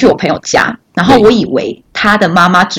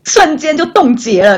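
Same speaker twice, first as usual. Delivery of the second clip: laughing while telling; 6 semitones higher, slower than usual. Real, not acted. Awkward moment retold, laughing.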